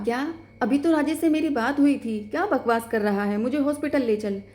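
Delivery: can't believe the news, push back hard; stunned wife refusing the news; shocked disbelief. Acted. Sister hears husband is dead.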